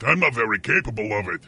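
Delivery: low, quick put-on voice mimicking the cohost; mocking imitation. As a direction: parrot him back mockingly. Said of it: "That's the way you sound".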